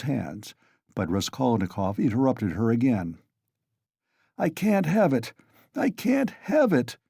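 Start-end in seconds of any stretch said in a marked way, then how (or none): 4.4-5.3 curt, irritated refusal; first take, mildly irritated and higher; irritable. A narrator's reading. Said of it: "he repeated irritably". 5.7-7.0 repeated far higher and more strained; second take climbs high in irritation; irritable, higher. A narrator's reading. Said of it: "he repeated irritably".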